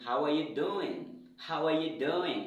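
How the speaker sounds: "doing" with the G only lightly touched; light final G. Shown as a demonstration. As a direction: repeat it as a model, "doing" nearly "doin'". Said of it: "c'est pourquoi je dis".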